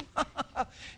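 high acted giggle; gleeful chuckle. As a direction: giggle at getting away with it. King gloats at being left alone.

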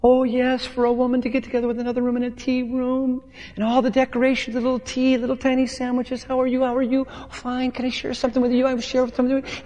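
a hint of a delighted wife; mimicking wife. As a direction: gush like the wife after her tea. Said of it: "She goes".

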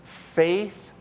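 drawn-out, deliberate word; slow repeat. Shown as a demonstration. Preacher slowing to repeat a key word, drawn out. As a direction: stretch the word out slowly for the church. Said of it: "as I repeat it slower".

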